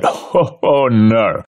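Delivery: giddy laughing oh no; overexcited. Acted. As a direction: relish it like a delighted nerd. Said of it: "You sound a little too excited about that".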